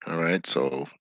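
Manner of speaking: talking through a mouthful of food; chewing while talking. Real, not acted. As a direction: speak while still chewing a bite. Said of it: "I'm eating".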